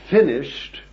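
a ringing cry of completion; cried out. Retold or imitated. Jesus crying out at the end, loud and final. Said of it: "Then he cried".

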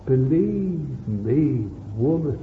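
pleading. Acted. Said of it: "And he pleaded with her".

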